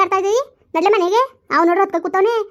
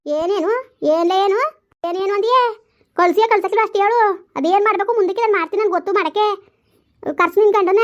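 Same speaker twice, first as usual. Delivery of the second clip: angry outburst; 3 semitones higher than usual. Acted. In-laws quarrel, rising anger.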